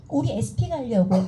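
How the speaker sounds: ordinary talk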